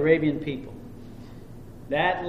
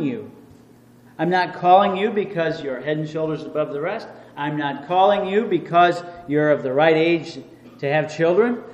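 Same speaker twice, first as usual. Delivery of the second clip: voice of God. Acted. Preacher voicing God promising Abram, a hint of grandeur. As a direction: speak as God calling Abram, mildly raised. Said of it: "God said".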